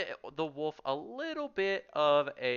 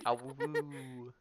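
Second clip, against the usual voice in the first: mock wolf howl; half-hearted playful howl; 4 dB quieter than usual. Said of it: "make her yap into the mic".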